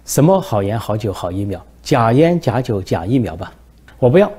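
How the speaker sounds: 不耐烦地呛声，结尾"我不要"猛地拔高喊出; 一脸嫌弃地驳回对方; 没好气. Acted. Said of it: "金正恩没好气地说". (没好气地顶回去)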